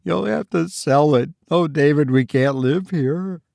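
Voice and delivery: distressed wife's plea; pleading wife. A narrator's reading. Narrator voices the pleading wife.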